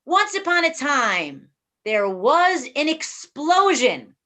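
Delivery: slow, drawn-out "Once upon a time"; storytelling opening. Shown as a demonstration. Teacher opens the class story, slow storytelling. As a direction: stretch it out like starting a tale. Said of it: "it's called The Explosion".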